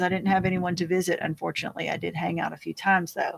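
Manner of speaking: ordinary talk, nothing marked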